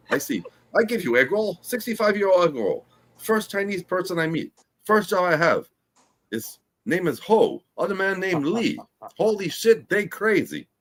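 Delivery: lightly slurred mock Chinese accent, hammed-up; drunk Chinese accent. Improv for the class as a drunk man in a mock Chinese accent. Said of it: "A Chinese drunk person".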